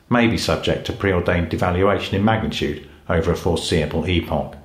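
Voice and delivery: robotic monotone speech; old speech synthesizer. Pretend. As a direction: speak like an old computer voice. Ron Dennis as robotic speaker.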